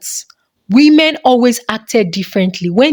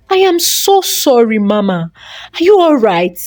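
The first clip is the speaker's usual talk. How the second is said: concerned. Acted. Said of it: "looking at her with concern".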